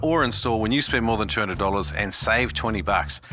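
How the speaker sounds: upbeat podcast sponsor read; steady, emphatic promo delivery. Acted. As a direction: sell it like a friendly sponsor plug. Host reads sponsor ad.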